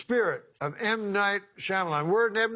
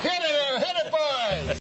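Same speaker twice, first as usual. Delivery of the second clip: calling to the band; 11 semitones higher than usual. Real, not acted. Cueing the band to play.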